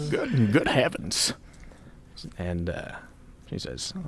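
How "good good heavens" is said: put-on slow, high-ish old lady gasp; a flustered old lady; flustered old woman. Opoly flustered.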